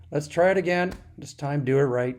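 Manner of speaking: loud, harsh command; dad snapping at his son to get it right; angry snap. Retold or imitated. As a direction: snap it out loud like a short-tempered father. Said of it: "Dad snapped".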